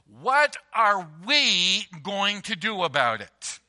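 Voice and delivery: slow, even question, what stretched; what the wife says. Retold or imitated. Wife asking her husband, slow and measured. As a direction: ask it calmly, as a shared problem. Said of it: "she turns to you and says".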